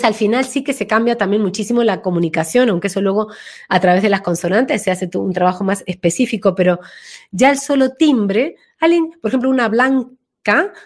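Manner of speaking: ordinary talk, nothing marked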